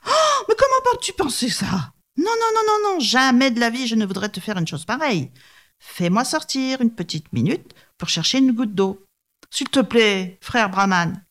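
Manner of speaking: very high, hammed-up protest of innocence; a sly tiger swearing he'd never; innocent tiger. (tigre faussement innocent, voix très aiguë)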